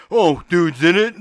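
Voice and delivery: high, loud, drawn-out fanboy imitation; mock gushing. Host mimicking friends hyped about the show, mock gushing.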